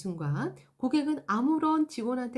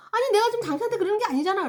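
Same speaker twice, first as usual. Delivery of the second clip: fast, much higher and louder protest; exasperated customer; 10 semitones higher, 5 dB louder, much faster than usual. Acted. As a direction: burst out defending yourself. Acted angry customer. (화난 고객의 빠르고 높은 항변)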